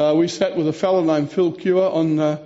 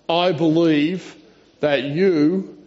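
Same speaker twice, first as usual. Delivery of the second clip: voicing Martha; slower than usual. Martha's confession voiced slowly.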